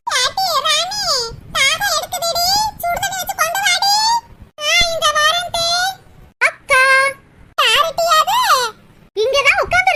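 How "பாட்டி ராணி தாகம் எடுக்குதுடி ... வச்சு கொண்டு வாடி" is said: calling out. Acted. Thirsty aunt calling for hot water, calling out. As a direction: call for someone in a raised pitch.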